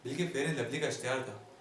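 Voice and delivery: theatrical comic recitation with dramatic pauses; comic stage monologue. Acted. Comedian addressing ladies and gentlemen about his life, mock-grand monologue. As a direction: declaim it like a mock-grand orator.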